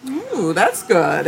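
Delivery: drawn-out, rising ooh of mock surprise; imitating a pleased, surprised creator; pleasantly surprised. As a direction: act out delighted discovery, slowly savored. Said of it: "being surprised and saying".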